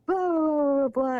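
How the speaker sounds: mock mad. Imitating boyfriend mad at being woken up, mock mad. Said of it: "he wakes up and he's mad".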